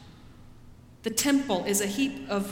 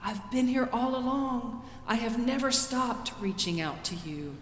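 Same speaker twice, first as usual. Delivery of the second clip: gentle voice of God; 3 semitones higher than usual. Acted. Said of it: "God speaks and says".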